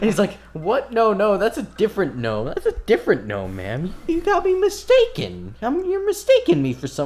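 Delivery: loud, high-pitched flustered denial; hammed-up panicky liar talking his way out; badly lying. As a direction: protest far too much, pitch leaping up. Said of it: "kinda fails at lying".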